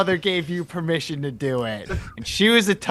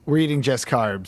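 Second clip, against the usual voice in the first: excited shout; 4 semitones lower than usual. Real, not acted. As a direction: cheer the idea of carbs. Excited agreement about carbs.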